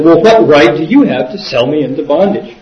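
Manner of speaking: mildly indignant, imitated protest; a touch of retold shock. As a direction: challenge his right, taken aback. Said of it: "He was totally shocked and said".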